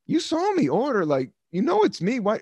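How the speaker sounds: high, indignant calling her out; retold complaint. To the lady cutting in line, mock indignant. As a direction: call out the line-cutter, mock outrage. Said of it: "and I'm like".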